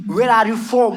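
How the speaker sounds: lips pushed forward, mock British English; put-on English accent. Comedian chatting up a London girl in a fake English accent. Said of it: "इस बार थोड़ा accent में गया मैं".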